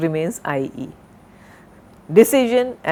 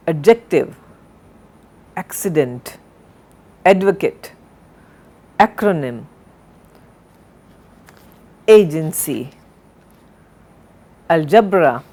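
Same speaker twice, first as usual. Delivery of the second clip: each word separate, first syllable punched, falling after; careful word-list reading, a pause after every word; correct word stress; 2 semitones lower than usual. Shown as a demonstration. Teacher reading a list for students to follow, deliberate correct stress. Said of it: "with correct enunciation and correct stress".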